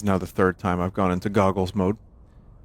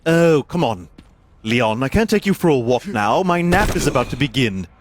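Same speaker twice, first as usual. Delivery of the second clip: mock Sherry; 4 semitones higher than usual. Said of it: "answering as Sherry".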